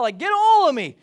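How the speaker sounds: high and loud, all in; eager Peter. Retold or imitated. Peter begging Jesus to wash all of him, eager and loud. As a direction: blurt it like an overeager disciple.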